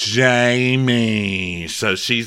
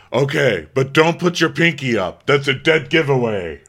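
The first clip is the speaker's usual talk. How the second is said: put-on higher-pitched instructing voice; mock etiquette teacher; 3 semitones higher, 3 dB louder than usual. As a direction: imitate a lady correcting tea manners. Marlo coaching tea etiquette.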